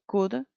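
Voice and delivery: slow teacher demo of could; could pronunciation demo. Shown as a demonstration. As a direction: say could slowly, as a model word. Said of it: "se pronuncia así". (pronunciación lenta de could)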